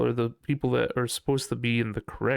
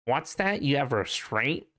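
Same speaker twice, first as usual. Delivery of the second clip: mocking disgust; 2 semitones higher, slower than usual. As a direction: sneer at restraint like a snob. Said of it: "one of those people that's like".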